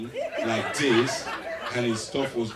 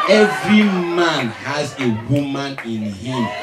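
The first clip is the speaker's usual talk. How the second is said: 1 emphatic punchline; 6 dB louder than usual. Real, not acted. Punchline shouted to crowd.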